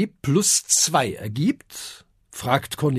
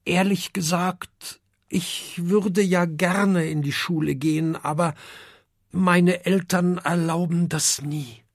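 sad; 3 semitones higher than usual. Acted. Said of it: "und sagt traurig".

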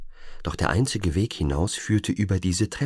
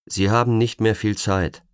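indifferent; 4 semitones higher, 5 dB louder than usual. Acted. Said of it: "mit gleichgültiger Stimme, beinahe ohne jede Betonung".

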